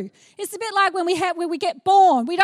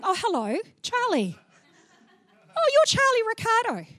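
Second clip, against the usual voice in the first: stiff formal introduction; 5 semitones higher than usual. Pretend. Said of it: "this formal introduction with Jesus".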